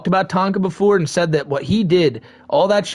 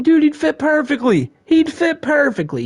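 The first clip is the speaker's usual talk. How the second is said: excited; 10 semitones higher than usual. Real, not acted. Excited agreement.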